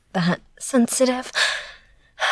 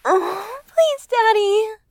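high, slow begging; high pleading; 8 semitones higher, slower than usual. Acted. Begging her partner in roleplay, high slow pleading.

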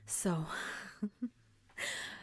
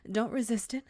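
ordinary talk

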